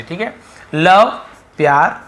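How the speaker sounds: ordinary talk, nothing marked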